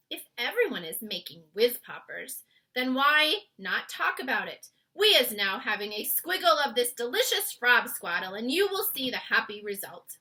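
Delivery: loud eager giant. A narrator's reading. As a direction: giant urges her cheerfully. BFG giant voice.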